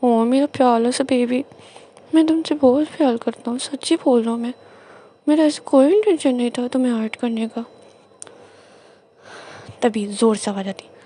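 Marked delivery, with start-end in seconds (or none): 0.0-7.7 pleading apology. Retold or imitated. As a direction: win him back with sweet talk. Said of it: "और ऐसे बोल रहा है". (मनाते हुए प्यार से माफ़ी)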